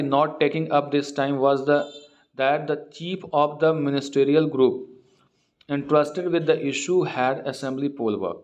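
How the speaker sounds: reads the English news line word by word, very slow; slow reading aloud. Acted. Teacher reading the newspaper aloud to students, slow and deliberate. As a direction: read it slowly so students can follow.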